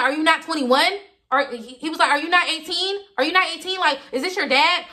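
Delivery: can't believe what he's hearing; shocked disbelief. Retold or imitated. Date asking if she's underage, high and incredulous. David shocked about curfew.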